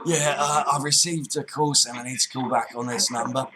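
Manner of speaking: put-on Cockney accent on the phone; Cockney geezer. Prank caller returning an IRS call, Cockney. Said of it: "full-on Cockney geezer".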